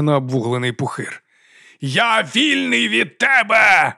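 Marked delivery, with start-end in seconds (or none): 1.8-3.9 high, slow triumphant cry; triumphant shout. A narrator's reading. Freed sorcerer crying out his triumph, high and slow. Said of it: "закричав він".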